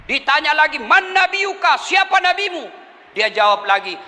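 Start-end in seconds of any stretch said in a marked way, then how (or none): 0.8-2.7 stern angel. Acted. Angel questions again.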